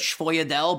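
schwoidel said "shfoy-a-DELL"; own pronunciation. Shown as a demonstration. Host answering how he says it, schwoidel as "shfoy-a-DELL". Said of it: "how do you say it?".

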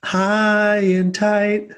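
high, slow mock-solemn voice; silly put-on voice. Mock blessing to listeners in a high put-on voice.

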